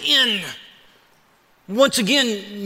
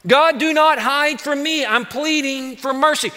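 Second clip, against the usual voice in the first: desperate plea; 4 semitones higher than usual. Retold or imitated. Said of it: "you can sense the desperation".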